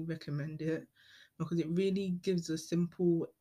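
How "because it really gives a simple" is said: tripping over the words; stumbling, restarting mid-word; stuttering. Real, not acted. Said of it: "I don't know why I'm stuttering".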